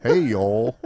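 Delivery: lightly put-on Southern greeting; half-hearted Southern impression; mock Southern accent. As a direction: try a Southern twang, unsure of it. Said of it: "saying that Southern people go like".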